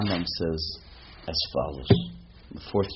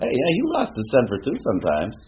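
raised, louder mimicry of a glib excuse; mock self-excusing; 5 semitones higher, 4 dB louder than usual. Rabbi mimicking people who excuse their temper, mock glib. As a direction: play someone brashly letting themselves off.

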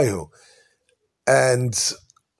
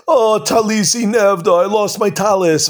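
higher, slow, lightly whined lament over a lost shawl; mock complaining; 5 semitones higher than usual. Neighbor bemoaning his lost talis, mild mock complaint. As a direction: act out a neighbor moaning about his loss.

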